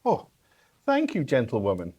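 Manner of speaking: put-on polite British-accented thanks; courteous British English delivery. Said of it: "you have a British accent".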